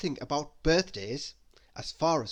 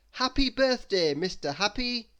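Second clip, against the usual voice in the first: bright, higher, louder banner cheer; cheerful greeting; 7 semitones higher, 3 dB louder than usual. A narrator's reading. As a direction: call it out like a banner.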